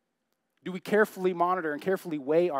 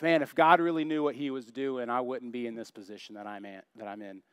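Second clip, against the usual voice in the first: mock grumbler, sinking low and soft; grumpy grumbling; 5 semitones lower, 4 dB quieter than usual. Pastor imitating Christians not getting their way, grumbling. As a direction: grumble and let it die away. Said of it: "a lot of grumpy, angry Christians".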